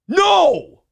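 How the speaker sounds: high, loud whiny "No!"; mock shout. Mocking viewers refusing his answer, high squealed shout. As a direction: squeal it like a sulking kid. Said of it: "they go".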